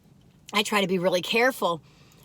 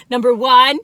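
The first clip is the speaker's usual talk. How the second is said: correcting herself; 8 dB louder than usual. Shown as a demonstration. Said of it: "I said number one".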